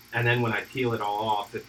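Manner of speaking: speaking with hiccups; words broken by a hiccup. Real, not acted. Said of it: "excuse me, I keep hiccuping".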